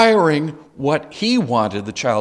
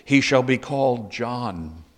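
emphatic; slower than usual. Retold or imitated. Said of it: "she's quite emphatic about this".

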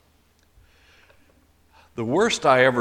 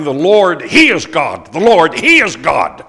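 loud, high triumphant shout; crowd shouting; 4 semitones higher, 13 dB louder than usual. Retold or imitated. The people on Mount Carmel shouting their praise. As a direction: cry it out like a victorious crowd. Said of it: "they start shouting".

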